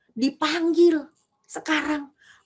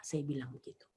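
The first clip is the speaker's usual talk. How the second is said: whisper; 13 semitones lower, 17 dB quieter than usual. Real, not acted. Trailing aside.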